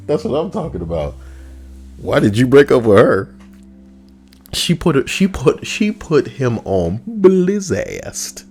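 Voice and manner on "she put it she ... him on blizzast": high mock voice. Voicing the ex-girlfriend's side.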